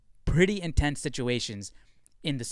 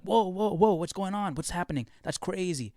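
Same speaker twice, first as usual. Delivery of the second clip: mildly hyped, higher-pitched viewer reaction; mock hype; 5 semitones higher than usual. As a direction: imitate an amazed moviegoer lightly. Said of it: "You're hyped".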